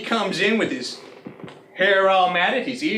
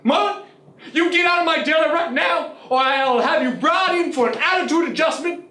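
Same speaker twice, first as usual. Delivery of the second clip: furious shout; 5 semitones higher than usual. Retold or imitated. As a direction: shout the dog out of the deli. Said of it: "I'm furious".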